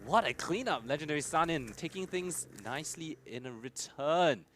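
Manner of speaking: esports caster calling the fight; live play-by-play. Real, not acted. Caster calls a gunfight for viewers, live play-by-play. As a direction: call the action, lifting pitch on the big moments.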